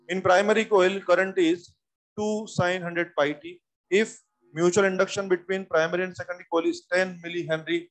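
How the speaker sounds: very slow, each word set apart; slow dictation. Shown as a demonstration. Teacher dictating the question to the class, very slowly. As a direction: read it out so they can write it down. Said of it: "सवाल की पूरी language सुनिए".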